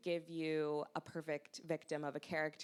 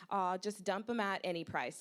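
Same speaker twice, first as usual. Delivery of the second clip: casual irritation; 4 semitones higher, 4 dB louder than usual. Pretend. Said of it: "with casual irritation".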